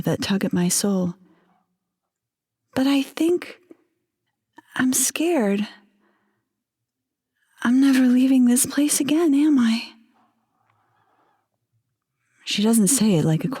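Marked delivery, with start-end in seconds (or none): 2.7-9.9 higher, mostly whispered fear; a frightened young wife barely breathing it; scared whisper. Acted. Wife afraid she will never leave, whispered fear. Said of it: "with a sorrow and fear".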